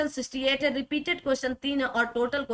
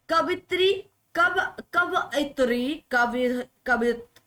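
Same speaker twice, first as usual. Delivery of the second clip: slow syllables; slower than usual. Shown as a demonstration. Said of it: "शुद्ध वाक्य कवयित्री होता है".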